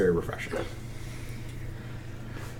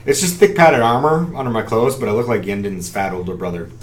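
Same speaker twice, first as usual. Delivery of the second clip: character voice. Acted. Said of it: "as she continues".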